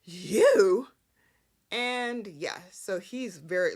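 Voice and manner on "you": sudden loud accusing yell; a startled soap-opera shout; mock shout. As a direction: bark the single word like a shocked accusation. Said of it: "Sharon balls out".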